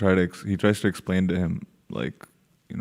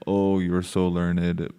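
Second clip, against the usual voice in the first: slow, mildly sarcastic mock compliment; much slower than usual. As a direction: stretch out the retold fake praise. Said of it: "very similar manner of saying".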